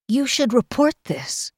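high-pitched, tight insistence; tightly controlled young girl's objection. A narrator's reading. Kel objects to Gower about the bruises, tightly. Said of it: "Kel told Gower tightly".

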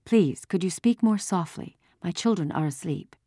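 hushed but firm request. A narrator's reading. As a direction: ask gently so the children stay asleep. Mother asks soldier to speak softly.

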